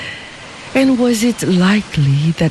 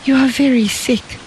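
cried out; 7 semitones higher than usual. A narrator's reading. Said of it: "cried Xie".

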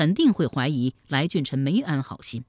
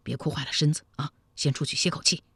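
softer, murmured comfort, a little quick; low, gentle voice; 5 dB quieter, faster than usual. Acted. Comforting his weeping beloved, softly and low. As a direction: speak low and tender to soothe her. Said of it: "低声说".

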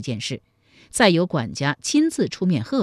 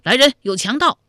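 higher, louder call for help; sudden loud cry; 7 semitones higher, 5 dB louder than usual. A narrator's reading. Captive crying for help against robbers, loud high shout. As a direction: call out urgently, as a narrator acting it. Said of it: "忽然大声叫道".

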